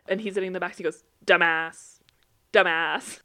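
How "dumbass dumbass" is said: loud, matter-of-fact repeat, evenly pitched; parroting child. Retold or imitated. Nephew in the back seat copying grandma, loud parroting. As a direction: parrot it twice, louder, like a copying kid.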